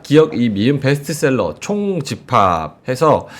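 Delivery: upbeat live sales pitch, key words stretched; conversational host-read commercial; sponsor ad read. Acted. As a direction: pitch the product to viewers.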